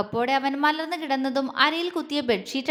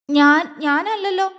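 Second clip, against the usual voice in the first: higher, louder, slow and halting; faltering voice; 5 semitones higher, 6 dB louder, slower than usual. Acted. Shaken girl denies the kiss, faltering and high. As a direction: stumble over it, shaken. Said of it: "അവൾ ഇടർച്ചയോടെ ചോദിച്ചു".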